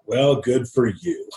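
slow, drawn-out mock congratulation; retold sneering praise, taking its time. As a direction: imitate a scornful uncle's slow put-down. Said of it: "he just sits there mocking me".

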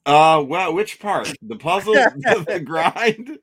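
muffled behind a hand; hand over mouth. Real, not acted. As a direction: speak through covering hand. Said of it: "You're talking with your hand over your mouth like a bashful housewife".

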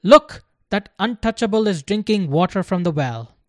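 loud accusing call; shouting. A narrator's reading. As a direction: call out to the others, pointing. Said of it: "They shouted".

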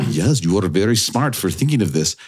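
lightly put-on Einstein accent; wild Einstein accent. Storyteller quotes the physicist's praise to himself, wild Einstein accent. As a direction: imitate a wise scientist in a rough Einstein accent. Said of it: "That is a wild Einstein accent".

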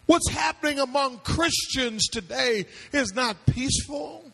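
call-and-response sermon delivery; impassioned preaching. Real, not acted. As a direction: preach it out to the congregation, stretching the big words. Preaches at full force.

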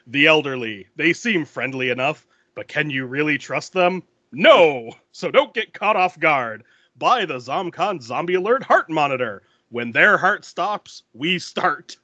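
lightly voiced TV ad spokesman; a hint of infomercial pitch, punching the key words; commercial pitchman. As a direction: imitate an ad man's measured warning. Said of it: "this guy comes on the screen. He's like".

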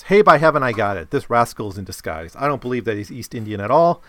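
lightly acted accuser, loud burst at the start; indignant accuser. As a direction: read it as a mild, punchy accusation. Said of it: "here's what one guy says".

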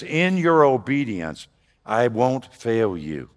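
hushed, unhurried divine reassurance; slow reassuring promise. Acted. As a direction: speak it as a tender vow. Voicing God's promise.

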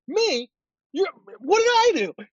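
high, feigned innocence, hammed-up; mock innocent player. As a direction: play the wide-eyed guilty lineman protesting to the ref. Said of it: "But I like to, like".

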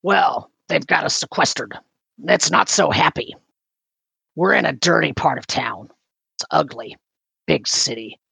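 lightly voiced character, in short halting phrases; a hint of character voice, pausing between remarks; Olgret voice. GM answering as Olgret about the refugees' plight, lightly voiced. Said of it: "make me do the Olgret voice".

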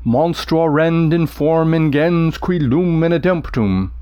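slow, heavy lunging Latin line; limping recitation. Shown as a demonstration. Teacher reading the Cyclops line, slow and lurching. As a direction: drag it like a limping monster. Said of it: "the limping".

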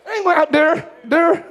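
mock Jamaican, "there" said as "dere"; Jamaican accent. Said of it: "She got a Jamaican accent".

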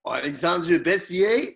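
put-on a light French accent, slow. Performing on request for the quiz, light French accent. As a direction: say the name the French way, gently. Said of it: "we want it in Dave's French".

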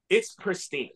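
understated, quiet admiration; hushed awe. Retold or imitated. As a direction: say it softly in awe. Retells the reveal, understated first take.

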